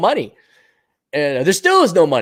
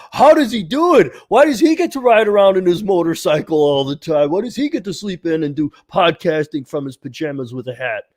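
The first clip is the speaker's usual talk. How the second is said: mock envious critics; 2 semitones higher than usual. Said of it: "the next sentence out there".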